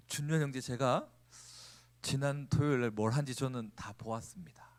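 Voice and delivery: whispered, low and secretive; hushed mock warning; ominous whisper. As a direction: lean in and whisper the secret like a threat. Secret revealed, whispered mock accusation.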